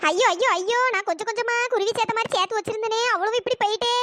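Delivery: plaintive wail with stretched endings; wailing lament. Acted. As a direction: lament it like a tragedy. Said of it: "என் நேரமா கத்திக்கிட்டே இருக்கா".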